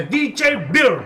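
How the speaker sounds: "D J Beer" stretched out slowly; correct pronunciation. Shown as a demonstration. Reminding him of the name D J Beer, slow emphatic demonstration. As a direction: spell out "Beer" slowly with a rounded vowel. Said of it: "acuérdate".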